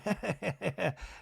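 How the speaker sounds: soft, put-on nervous chuckle; imitated nervous laugh. Miss Patricia as J T hobbles over, mock nervous laugh. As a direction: mimic uneasy laughter, quietly. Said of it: "Miss Patricia's nervously laughing".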